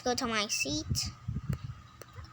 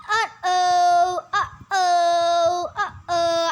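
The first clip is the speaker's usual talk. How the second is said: worried; 5 dB louder, much slower than usual. Acted. Losing oxygen.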